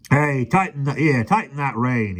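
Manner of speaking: sharp shout. A narrator's reading. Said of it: "he shouted sharply".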